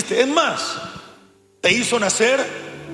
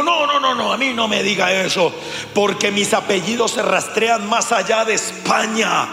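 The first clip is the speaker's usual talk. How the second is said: ofendido, imitado. Retold or imitated. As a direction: protest like someone whose pride is hurt. (protesta de ofendido, imitada)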